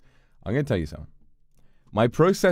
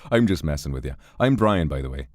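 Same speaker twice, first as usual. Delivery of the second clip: put-on Irish accent; 6 semitones lower than usual. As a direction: lightly voice a wry Irishman. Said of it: "My Irish definitely needs work".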